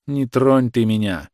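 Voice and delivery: the mother, lightly voiced, hugging her son; anguished cry. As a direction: cry it out in longing. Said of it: "тоскливо крикнула она".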